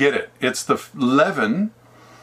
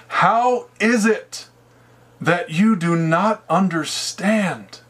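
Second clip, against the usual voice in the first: raised and very slow, each word drawn out; pleading rebuke; 4 semitones higher, slower than usual. Acted. Jesus rebukes the dull disciples, slow pained plea.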